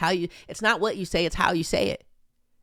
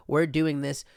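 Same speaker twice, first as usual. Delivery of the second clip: lightly voiced press secretary, brisk; mock official reassurance; slower than usual. Mocking the press secretary's reply, lightly voiced. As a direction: toss it off like a spokesperson. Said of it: "your tone of how you said things".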